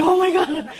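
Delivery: high-pitched acted gasp of words; mock shock. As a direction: react in a small high voice, aghast. Acting his shock at the club.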